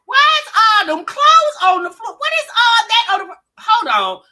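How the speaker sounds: baffled outburst. Acted. Acted bafflement at messy floor.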